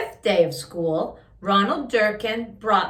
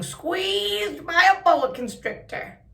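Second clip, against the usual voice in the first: higher, slow squeezed croak; bullfrog voice; 8 semitones higher than usual. A narrator's reading. Reading to a child, squeezed bullfrog croak. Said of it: "had a voice that sounded like a bullfrog".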